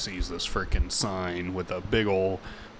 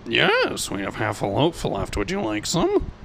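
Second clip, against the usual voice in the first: barkeep voice; 3 dB louder than usual. Acted. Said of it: "barkeep's like".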